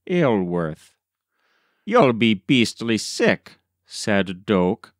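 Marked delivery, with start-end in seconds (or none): 1.9-3.6 jovial grin. Acted. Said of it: "grinning jovially".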